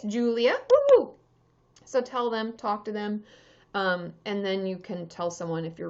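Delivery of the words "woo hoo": high, loud celebratory whoop; cheering woo-hoo. Real, not acted. Streamer whooping to thank a chat helper. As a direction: whoop for the viewer who just helped.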